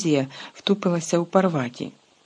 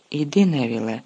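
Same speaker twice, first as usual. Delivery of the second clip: commanding; 4 semitones lower than usual. Acted. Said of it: "звелів Люпен".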